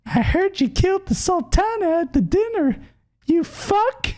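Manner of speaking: very high squeaky falsetto character; Momodi voice. Acted. Streamer greets Desmond as a game character, in a very high put-on voice. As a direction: put on a tiny, extremely high-pitched voice. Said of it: "That was my Momodi voice".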